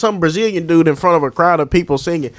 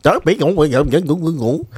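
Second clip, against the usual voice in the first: bouncy mock Portuguese, syllables bouncing off each other; a joking take on how Portuguese sounds; mock Portuguese accent. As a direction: imitate Portuguese speech by bouncing off the words. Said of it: "That's how they sound when they talk".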